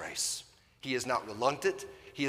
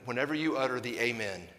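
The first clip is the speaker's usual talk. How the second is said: ordinary talk, nothing marked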